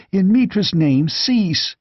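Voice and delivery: high, desperate plea; begging. A narrator's reading. Terrified merchant pleads with Conan to cease, high and begging. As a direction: beg him to stop. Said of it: "begged Publio".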